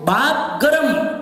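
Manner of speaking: very slow, ગરમ stretched out; recited saying. Shown as a demonstration. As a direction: weigh each half of the rhyme. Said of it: "number two".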